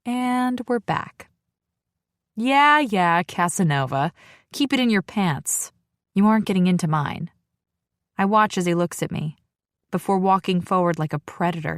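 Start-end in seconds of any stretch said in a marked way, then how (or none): 2.3-7.3 sarcastic brush-off, quicker at the end; sassy. Acted. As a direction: tease him with eye-rolling sass. Sassy retort to his flirting.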